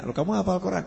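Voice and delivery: high, surprised-sounding question in a story; retold questioning. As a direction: voice the holy man querying the jinn.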